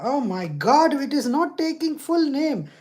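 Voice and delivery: frustrated. Real, not acted. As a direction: lose patience with the search. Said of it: "It's so frustrating".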